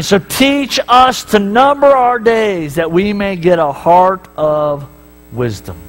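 prayerful quote. Acted. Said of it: "David is praying".

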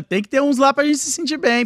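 high, laughing mock voice of the smug elite; laughing through a sneer at the rich. Friend mocking the elite, laughing high.

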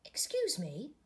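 whispered politely; timid whisper. Acted. Butterfly to frog, asking timidly, whispered.

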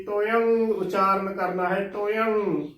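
ਤੋਯੰ ending in a held ng; ਤੋਯੰ as "to-yang", g unsounded; nasal "toyan". Shown as a demonstration. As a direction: let ਤੋਯੰ close on the nasal. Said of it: "ਇਸ ਦਾ ਸ਼ੁੱਧ ਉਚਾਰਨ ਹੋਵੇਗਾ".

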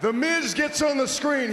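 ordinary talk, nothing marked

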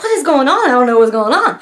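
mild mock panic; freaking out, imitated. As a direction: act out a friend lost for answers. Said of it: "freaking out".

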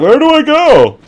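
high lost little voice; squeaky mock bewilderment; mock confused. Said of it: "I was like".

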